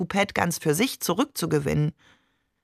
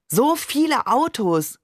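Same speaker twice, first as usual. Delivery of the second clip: higher and slower, marvelling; excited cry; 7 semitones higher, slower than usual. Acted. The child narrator marvels at the cars in the roundabout, higher excited cry. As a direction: call out wide-eyed at the traffic. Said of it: "rief ich".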